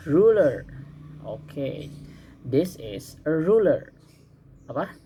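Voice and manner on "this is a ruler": slow model sentence. Shown as a demonstration. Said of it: "Once more time".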